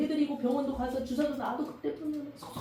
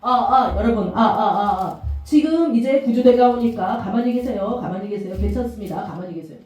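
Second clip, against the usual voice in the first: louder mock broadcast voice, mic check and calm orders; ferry announcement; 3 semitones lower, 6 dB louder than usual. Preacher imitating the ferry's broadcast, loud and official. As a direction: imitate the ship's PA telling kids to stay put. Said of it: "방송에서 뭐라 했어?".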